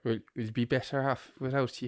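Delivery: second stab at a mock Irish accent; half-serious, badly faked Irish accent; attempted Irish accent. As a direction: try the Irish accent at normal pitch. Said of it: "can't do an Irish accent".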